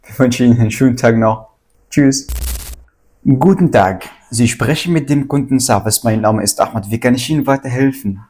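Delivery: brisk polite phone greeting; customer service voice. Acted. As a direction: answer like a hotline agent. Agent role in a phone role-play.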